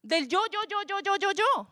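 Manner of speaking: high, sing-song chain of yo; mock your own self-centered list; mocking repeated yo. Preacher mocking his own list of complaints to God, high sing-song. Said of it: "Y le saqué la lista".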